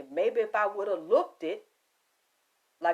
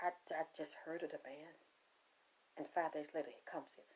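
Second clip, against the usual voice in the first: hushed awe; 7 semitones lower, 19 dB quieter, faster than usual. Real, not acted. Awed by the death.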